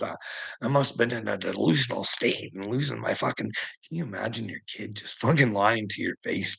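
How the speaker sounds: ordinary delivery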